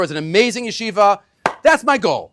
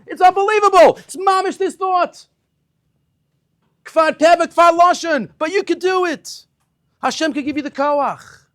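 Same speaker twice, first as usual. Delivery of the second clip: much higher and louder, fervent; passionate emphasis; 10 semitones higher, 7 dB louder than usual. Real, not acted. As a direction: drive the point home. Climax of lesson's message.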